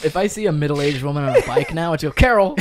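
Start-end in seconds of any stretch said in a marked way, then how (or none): 2.1-2.6 high, loud name call; mock call-out. Co-host calling to a woman on a bike, playful yell. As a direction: holler it at a passing cyclist.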